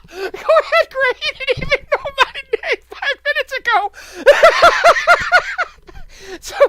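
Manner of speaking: high, loud, laughing shout; laughing taunt. Real, not acted. Daring the tax man to call police, shouting through laughter.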